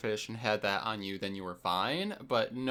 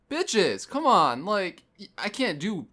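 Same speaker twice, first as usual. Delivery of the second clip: high, loud, pleading rant; exasperated scolding; 9 semitones higher, 6 dB louder than usual. Retold or imitated. Raider telling teammates to clear the debuff, exasperated. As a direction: scold them in mock exasperation.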